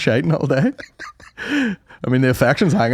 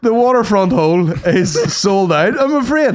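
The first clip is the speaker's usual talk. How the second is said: laughing through it; 5 semitones higher than usual. Real, not acted. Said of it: "Freudian slip?".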